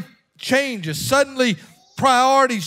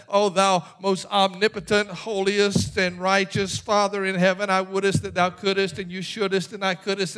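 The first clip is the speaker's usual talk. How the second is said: cute prayer; 4 semitones lower, 4 dB quieter than usual. Pretend. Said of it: "what I'm talking about by cute prayer".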